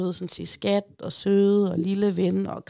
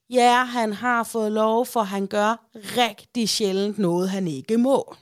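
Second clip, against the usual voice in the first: called out from kitchen; 3 dB louder, slower than usual. Retold or imitated. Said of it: "råber jeg bare ud fra køkkenet".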